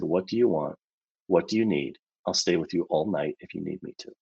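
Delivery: soft, tender reassurance; gentle whisper. Retold or imitated. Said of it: "he whispered this time".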